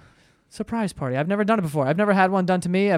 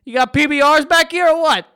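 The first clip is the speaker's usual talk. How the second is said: redneck bar order; 7 semitones higher, 7 dB louder than usual. Retold or imitated. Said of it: "I didn't wanna be like".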